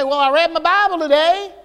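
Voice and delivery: a hint of box-ticking pride; mock self-satisfied. Preacher mocking people who read just to say they did, mock smug. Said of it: "They read it to say".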